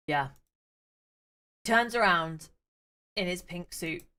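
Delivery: ordinary talk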